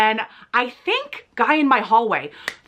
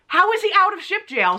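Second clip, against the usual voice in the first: shocked gossip; 9 semitones higher than usual. Retold or imitated. Shocked whisper at the puncher.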